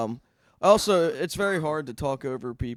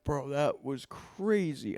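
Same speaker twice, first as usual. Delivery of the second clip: slow stunned; 3 dB quieter, much slower than usual. Retold or imitated. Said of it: "are like".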